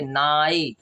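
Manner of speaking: slow "नाई", dwelling on the aa-ee glide; drawn-out vowel sound. Shown as a demonstration. Teacher shows where i is heard, "नाई" drawn out. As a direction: stretch "नाई" so the long i is audible. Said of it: "आई आ रहा है ना".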